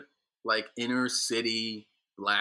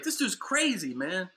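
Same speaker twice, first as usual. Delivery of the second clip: retold disbelief; 7 semitones higher than usual. Retold guy mocking him.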